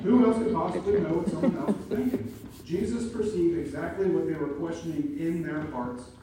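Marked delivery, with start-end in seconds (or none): 0.0-2.3 higher and louder challenge; preacher pressing the point loudly; emphatic rhetorical question. Real, not acted. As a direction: press the congregation hard.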